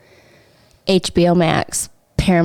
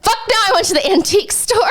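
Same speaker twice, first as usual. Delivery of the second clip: quoted retort; 12 semitones higher, faster than usual. Retold or imitated. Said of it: "I was like".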